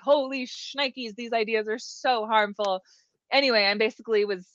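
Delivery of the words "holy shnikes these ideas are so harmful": shocked quote. Retold or imitated. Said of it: "And I'm like".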